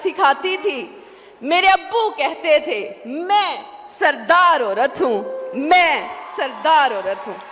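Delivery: slow, declamatory sher recital; poetry recitation. Acted. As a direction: recite the verse grandly, drawing out the key words. Recites a couplet on stage. (شعر خوانی کا پُرجوش، ٹھہرا ہوا انداز)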